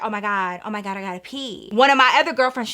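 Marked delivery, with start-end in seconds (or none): 0.0-1.7 urgent hush. Retold or imitated. Desperate urgent whisper.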